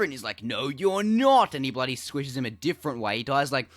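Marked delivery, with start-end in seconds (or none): 0.4-1.5 mock villain retort. Villain response.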